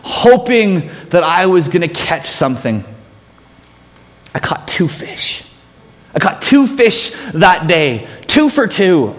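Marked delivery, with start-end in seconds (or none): 4.3-5.4 hushed, breathy whisper, then said aloud. Acted. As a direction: breathe it like a secret. Whispered aside then repeated aloud.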